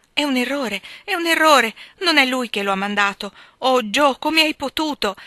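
high, loud, anguished protest; distressed outcry. A narrator's reading. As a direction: cry out in dismay, without actual sobs. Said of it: "Meg piangeva disperatamente".

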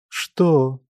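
ordinary delivery, nothing marked

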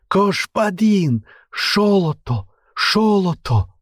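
Кошпадин and Шолото lisped, high and drawn out; lisping hiss. A narrator's reading. Captive pleading for his life, lisped Шолото. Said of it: "зашипел он".

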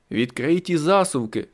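commanding yell to Diana; urgent shout. Acted. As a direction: shout the order across the room. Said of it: "крикнув я Діані".

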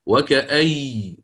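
وكأي said slowly, stopping without nun; pausal form. Shown as a demonstration. Teacher answers how to pause on it, deliberately. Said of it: "كيف سنقف عليها؟".

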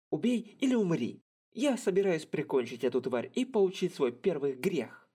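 high brash boast; cocky fighter. Acted. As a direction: pump himself up to kill. Ranta psyches himself up.

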